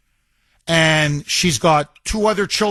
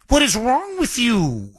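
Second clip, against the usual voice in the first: exasperated scolding; 3 semitones higher than usual. Pretend. Scolding child, repeated.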